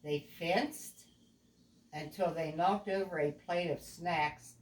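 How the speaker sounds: put-on a clear, even storybook read to a young child; storytelling narration. A narrator's reading. Parent reading a picture book aloud to a child, storybook voice.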